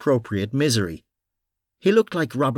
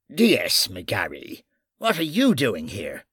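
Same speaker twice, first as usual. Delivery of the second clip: stern officer voice. Acted. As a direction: demand answers coldly.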